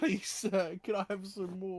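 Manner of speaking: put-on high, pleading orphan boy; Oliver Twist. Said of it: "the Oliver Twist voice".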